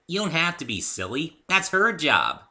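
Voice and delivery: high, bouncy and eager; high cheerful pony girl; bubbly Pinkie voice. Acted. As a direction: chirp it like an excitable pony. Pinkie's voice again.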